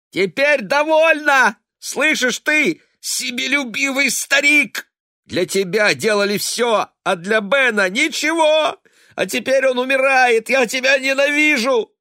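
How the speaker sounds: very high, loud shrieking; desperate shriek. A narrator's reading. Daughter shrieking hatred at her father. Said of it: "отчаянного визга".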